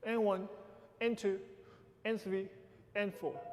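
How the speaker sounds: "And one, and two, and three, and four" in separate short bursts; uneven accented count. Shown as a demonstration. Teacher demonstrating the right accent to dancers, uneven "And one, and two, and three, and four". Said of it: "It's not even".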